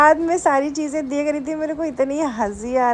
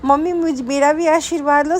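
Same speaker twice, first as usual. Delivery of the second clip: imitating child Rishank; 5 semitones higher than usual. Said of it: "Rishank मुझे क्या कह रहा था".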